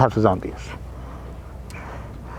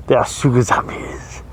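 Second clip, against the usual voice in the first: laughing before getting the words out, softer; real laughter; 5 dB quieter than usual. Real, not acted. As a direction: break up laughing, then squeeze the words out. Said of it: "say sugar zombies without laughing".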